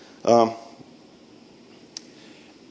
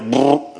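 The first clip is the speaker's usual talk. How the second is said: rolled brrr like distant machine-gun fire; trilled gun-noise imitation; imitated gunfire. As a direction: mimic the gun burst he heard. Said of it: "I hear a big boom".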